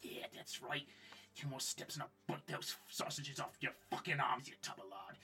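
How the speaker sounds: faint, sneering creature voice taunting; a menacing hidden voice from the dark. Acted. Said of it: "hear a faint voice going".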